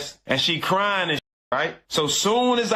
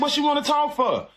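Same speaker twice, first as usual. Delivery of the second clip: incredulous retort; 9 semitones higher than usual. Retold or imitated. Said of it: "I said".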